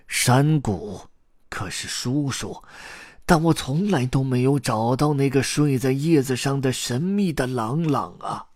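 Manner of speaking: put-on pleading old man. A narrator's reading. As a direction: recite and protest in drawn-out distress. Grandpa pleads with ghost uncle.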